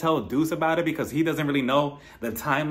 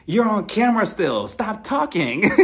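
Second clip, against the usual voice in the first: urgent warning; 5 semitones higher, 3 dB louder than usual. Retold or imitated. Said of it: "And I'm like".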